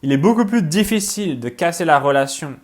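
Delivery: restated with firmer, clearer delivery; deliberate, emphatic restatement. Real, not acted. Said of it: "Excusez-moi, je parle trop vite".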